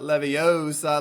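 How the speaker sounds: "Leviosa" slow with a stretched O; stress on O. Acted. Recalling the classic movie line, long O in "Leviosa". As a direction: draw out the O in "Leviosa". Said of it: "I like it better in the movie".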